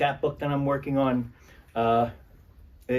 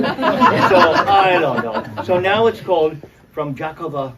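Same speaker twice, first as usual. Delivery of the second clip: laughing; 5 semitones higher, 10 dB louder, slower than usual. Real, not acted. Amused by the retitling story.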